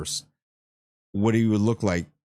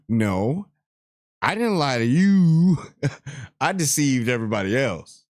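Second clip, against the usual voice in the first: mock Sauron protest; 4 semitones higher than usual. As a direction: protest it like an indignant dark lord. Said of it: "how I said it to her".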